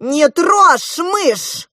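high, loud, very slow order; young prince ordering the crab; commanding. A narrator's reading. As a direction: forbid it with authority. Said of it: "повелительно сказал".

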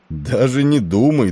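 slow, friendly exclaiming; friendly exclamation. A narrator's reading. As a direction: wave the worry away amiably. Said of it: "дружелюбно воскликнул Тернер".

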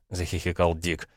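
usual speaking voice

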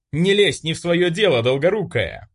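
bully shrieks at Olga; hysterical shriek. A narrator's reading. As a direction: shriek it, out of control. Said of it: "истерично взвизгнул он".

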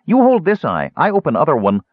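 very high, loud little creature voice; gully dwarf. Acted. Gully dwarf reporting on the sleeper, high and loud. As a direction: squeak out a blunt report. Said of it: "she said to Tasselhoff".

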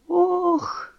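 put-on soft high "ох" of an old woman; a sorrowful old-woman oh; frail sigh of dismay; old woman's sigh. A narrator's reading. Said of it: "старуха сплеснула руками".

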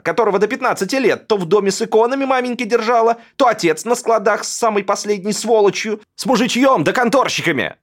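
high, loud, shrill-edged tirade against his brother; rant, near tears, self-pitying fury; ruined heir screaming at his older brother; hysterical brother. A narrator's reading. Alexander continues his rant.

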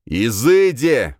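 loud, drawn-out exorcism command; rougher, possessed voice. A narrator's reading. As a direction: intone it as if a demon speaks with you. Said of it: "повторил я не своим голосом, более грубым".

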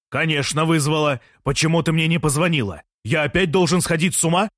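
exasperated man demanding answers; agitated outburst. A narrator's reading. Jean bursts in demanding answers.

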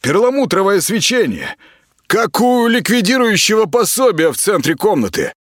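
high, brash and rude, hurling insults; high, scornful voice of a bratty celebrity patient. Acted. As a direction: snap at the stranger like a spoiled star. Fogel voice.

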